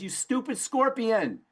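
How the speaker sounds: a betrayed frog yelling at the scorpion; angry frog. Acted. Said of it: "And the frog looks up and says".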